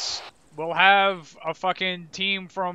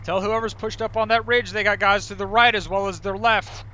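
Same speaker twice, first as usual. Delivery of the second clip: raised voice; 3 semitones higher, 6 dB louder than usual. Real, not acted. Commander relaying orders under fire.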